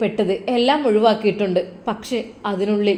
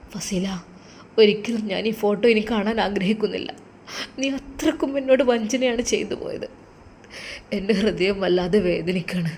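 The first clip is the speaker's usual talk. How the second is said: soft, broken farewell to the photo; about to cry; 5 dB quieter than usual. Acted. Husband renouncing his wife's photo, softly on the edge of tears. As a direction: let the voice sink as the tears come. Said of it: "Nawaz പൊട്ടിക്കരഞ്ഞു".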